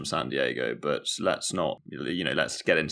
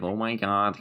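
a hint of LA Valley girl accent; twangy Valley girl; 2 semitones higher than usual. Shown as a demonstration. Contrasting LA with San Diego, lightly twangy Valley girl accent. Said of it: "kind of twangy, that kind of L A girl, Valley girl".

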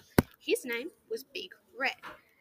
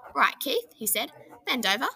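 loud command; 4 semitones higher, 7 dB louder than usual. A narrator's reading. Big Red ordering Keith.

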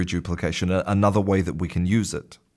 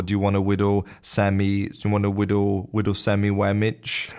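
says w for r. Retold or imitated. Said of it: "instead of a sandwich".

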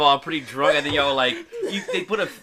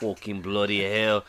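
put-on slow, light English accent; lightly put-on Birmingham voice; 4 semitones lower than usual. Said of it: "I'm pretty good with some accents".

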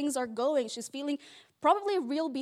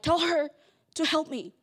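mildly snippy order; a hint of curt demand; a touch of tone; 3 semitones higher than usual. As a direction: sister with an edge in her voice. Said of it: "there's a little bit of a tone".

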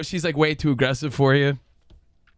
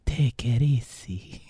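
put-on very slow, lower Hispanic accent; 5 semitones lower, 4 dB quieter, much slower than usual. Quoting the cartoon meme's answer, slow Hispanic accent. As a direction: draw out each word with a Hispanic accent. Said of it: "I love your Hispanic accent".

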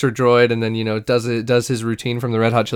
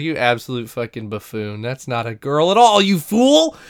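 mock scolding. Flea berates Obi-Wan for falling for a dummy, mock outrage. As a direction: build to an outraged mock villain cry. Villain berating the hero, acted.

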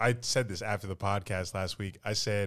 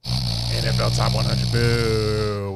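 mock booing; 9 dB louder, much slower than usual. Real, not acted. Booing NFL list.

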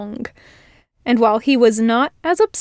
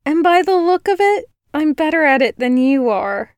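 put-on higher, smug girl voice; girl boasting she knits better; 5 semitones higher than usual. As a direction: rub it in.

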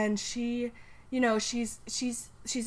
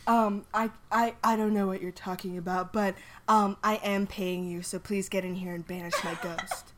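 Trump-like Harry. Acted. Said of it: "Why does he sound like Trump?".

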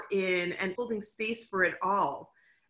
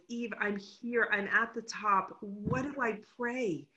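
soft, slightly raised, awed retelling; imitating emotional voice; 3 semitones higher, 5 dB quieter than usual. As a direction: quote a hushed, overwhelmed plea from the mountaintop. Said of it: "your voice was shaking with emotion".

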